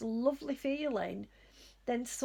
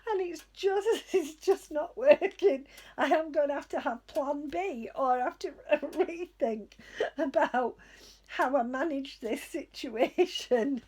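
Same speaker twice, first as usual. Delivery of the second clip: louder, laughing through the words; amused exasperation, laughing; 4 dB louder than usual. Real, not acted. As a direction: giggle out the frustration. Laughing at broken internet.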